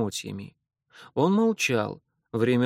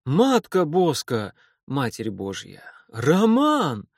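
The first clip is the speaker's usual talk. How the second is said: joyful shout; slower than usual. Acted. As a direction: cry out the name in delight. Sudden reunion with old friend.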